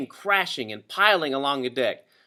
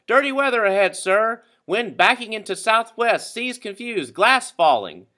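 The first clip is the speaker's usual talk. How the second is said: high, loud call to shore; 8 semitones higher, 5 dB louder than usual. A narrator's reading. Stewart calling to the owner on shore, high loud call. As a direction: shout the report across the water. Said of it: "he waved his hat and called out".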